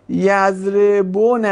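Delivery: "یضربون" sounded out slowly with an u vowel after the b; original unreduced form. Shown as a demonstration. Teacher showing students the form before simplification, "یضربون" with its damma sounded. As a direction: say "یضربون" with the damma on the b fully voiced. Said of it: "یعنی چی بوده؟".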